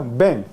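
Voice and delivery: "Ven" ending at the back of the mouth in ng; velarized n. Shown as a demonstration. Teacher shows lowland pronunciation, "Ven" velarized to "veng". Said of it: "Pero ¿cómo se pronuncia?".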